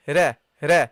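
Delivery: "Ra" said thin and light; bright light "Ra". Shown as a demonstration. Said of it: "The second one is lightly pronounced".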